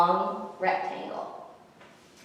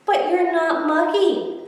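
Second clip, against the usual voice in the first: Dewdrop's voice; 10 semitones higher, 6 dB louder than usual. A narrator's reading. Dewdrop answers Sloppy.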